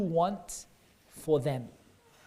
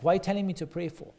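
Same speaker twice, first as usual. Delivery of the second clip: mock angry dad; faster than usual. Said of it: "if he gets angry and he's like".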